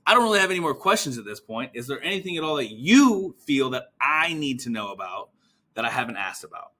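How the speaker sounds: breeze past "at this point" into the question; quick first clause, then open question; no handover emphasis. Shown as a demonstration. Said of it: "I don't even have the word you in here".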